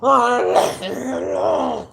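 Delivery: slow, whiny leave me alone; mock a whiny brush-off; whiny quote. Imitating someone who whines, slowly. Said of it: "when they say".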